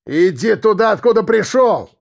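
curt retort. A narrator's reading. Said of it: "отрезал голос".

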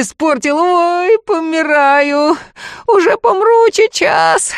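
cursed sorcerer wailing that he is dying; moaning in agony. A narrator's reading. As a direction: wail like you are dying. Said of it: "Он сдавленно стонал".

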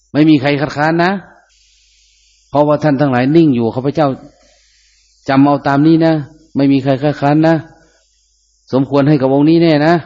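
a monk leading the kathina vote; ceremony leader. Acted. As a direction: address the monks as the rite leader.

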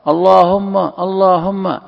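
mock the loud pilgrim calling out to God; imitating loud tawaf prayer. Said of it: "يرفعون أصواتهم".

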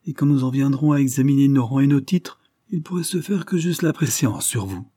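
plus aigu et plus fort, il tient tête; exclamation fière et provocante; s'écrie avec défi. Acted. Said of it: "s'écria-t-il". (cri de défi mesuré)

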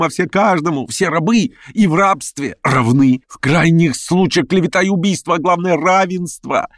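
high, excited rant; feverish plotter. A narrator's reading. Verkhovensky ranting to Stavrogin about his plans, high and feverish. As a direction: rave and persuade.

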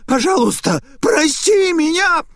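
very high, loud, slowed desperate shriek for mercy; shrieking plea. Acted. Naita on the floor shrieks for mercy. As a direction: scream for mercy at the peak of terror. Naita begs, terror peaking.

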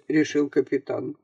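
ordinary talk

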